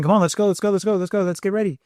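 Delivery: high, hurried let's go; rushing parent. Retold or imitated. Parent rushing kids, high and hurried. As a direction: hurry the kids out the door. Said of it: "If I'm saying".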